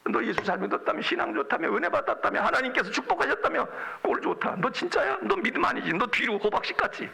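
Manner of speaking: imitated jeering in quick taunts; lightly acted taunts, pitch often lifted; mocking. Job's friends jeer at his faith, mocking. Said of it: "이러고 막 조롱하는데".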